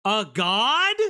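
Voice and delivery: loud disbelieving repeat; incredulous. Real, not acted.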